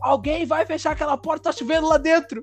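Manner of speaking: high-pitched aunt's command, mock shouting; imitated yell. Aunt demanding someone shut the door in the rain, imitated yelling. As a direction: mimic a scolding aunt ordering the kids back. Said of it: "ela pegou e gritou assim".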